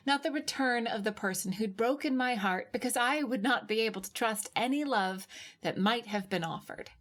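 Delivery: plain reading voice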